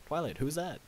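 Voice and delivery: suddenly wide awake and alarmed; surprised. Acted. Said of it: "flew up in surprise".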